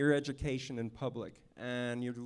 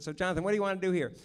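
quoting Charlie; 4 semitones higher, 5 dB louder, much faster than usual. Retold or imitated. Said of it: "he came over and said".

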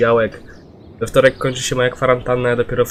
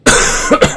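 sudden loud hacking cough; a harsh cough bursting out; chesty cough; 11 dB louder than usual. Real, not acted. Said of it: "O kurwa".

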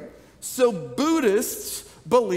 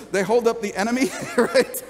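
laughing at the slip. Real, not acted. Laughs at own Emmy/enemy slip.

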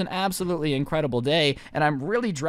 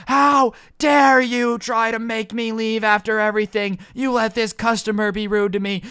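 high, raised-voice customer tirade; mock a furious customer, building louder toward the end; outraged rant; 4 semitones higher, 5 dB louder than usual. Customer told to leave rants at the manager, high-pitched outrage.

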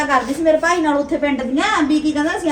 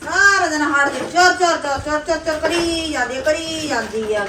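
mocking chatter; 2 semitones higher, slower than usual. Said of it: "ਤੂੰ ਕਿਵੇਂ ਬੁੜਬੁੜ ਜੇ ਕਰੀ".

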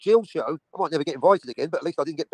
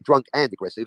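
"and" firmly emphasized; both conditions joined by a weighted "and"; stress on AND; 4 semitones lower than usual. Shown as a demonstration. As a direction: lean hard on "and". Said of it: "Operative word and".

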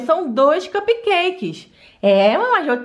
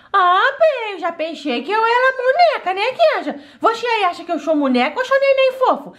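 put-on giggly little girl; 5 semitones higher than usual. Doll child asking viewer, laughing.

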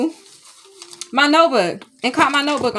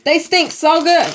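quoted saying; 5 semitones higher, 4 dB louder than usual. Retold or imitated. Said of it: "How they say?".

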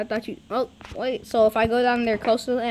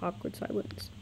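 1 mock whisper; 4 semitones lower, 16 dB quieter than usual. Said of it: "joking commentary whisper".

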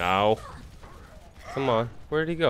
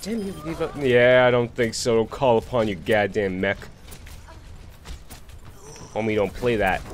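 taunting; 4 dB louder than usual. Real, not acted. Taunting enemy in game.

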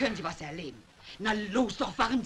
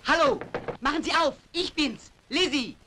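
calling out; 6 semitones higher than usual. Acted. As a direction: call out so they hear you. Calling at the door.

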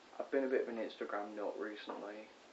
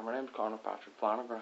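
badly faked Irish accent. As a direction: introduce yourself in a poor Irish accent. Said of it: "Can't do an Irish accent very well".

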